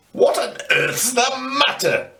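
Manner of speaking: taken aback by the noise; startled. A narrator's reading. Grandad to the screaming boy, startled and puzzled.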